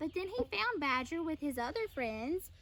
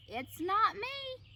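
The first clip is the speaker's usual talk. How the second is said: high, slow little squeak; squeaky little mouse voice; 7 semitones higher, slower than usual. A narrator's reading.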